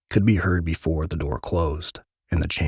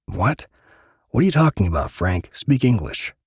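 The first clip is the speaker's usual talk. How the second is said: incredulous; 5 semitones higher than usual. Acted. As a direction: blurt it out in disbelief. Disbelieving outburst.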